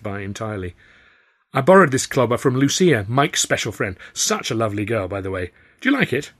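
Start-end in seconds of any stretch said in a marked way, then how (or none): 1.5-6.3 playful showing off. Acted. Tilly showing off disguise.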